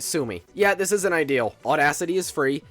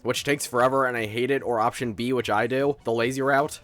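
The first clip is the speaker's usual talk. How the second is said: lower, relaxed everyday voice; natural speaking voice; 3 semitones lower than usual. Real, not acted. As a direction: drop the YouTuber act and just talk. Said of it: "talking to you how I actually sound".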